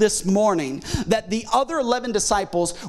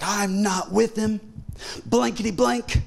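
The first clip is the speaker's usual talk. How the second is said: mock censored cussing. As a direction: deny it crossly with stand-in swear words. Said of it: "He starts cussing".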